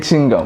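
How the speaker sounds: "chewing gum" run together as "ching-gum"; mispronounced chewing gum. Shown as a demonstration. Teacher showing the wrong word, "chewing gum" as "ching-gum". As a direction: drop the middle syllable of "chewing gum": "ching-gum". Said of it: "The word is chewing gum".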